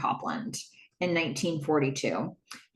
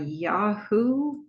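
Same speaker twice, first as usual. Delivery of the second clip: hesitant questioning YAHOO, drawn out; question-mark Yahoo. Retold or imitated. Tripp naming Netscape's search directory, questioning tone. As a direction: say YAHOO as if unsure it is the name. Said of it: "kept saying Yahoo with a question mark".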